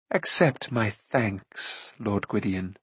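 soft, very slow, mocking thanks; silky quiet menace. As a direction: purr it softly with menace. Akron mocks Gwydion.

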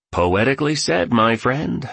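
high-pitched, lightly gleeful praise; gleeful exclamation. A narrator's reading. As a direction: exclaim it with a touch of glee. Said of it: "exclaimed the billionaire gleefully".

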